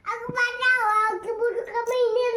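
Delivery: pretend cry for help. Child plays at being rescued.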